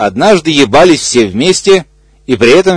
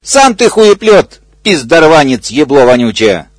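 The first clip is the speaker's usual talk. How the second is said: cursing; 2 semitones higher than usual. Acted. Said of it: "ругался заёбанный бегемот".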